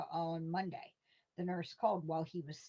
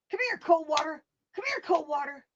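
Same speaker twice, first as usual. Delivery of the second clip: high, loud holler for a dog; calling the dog; 10 semitones higher, 10 dB louder than usual. Acted. Uncle outside calls his hound to come, high loud holler. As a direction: holler across the yard to bring the hound in. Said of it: "to call the dog".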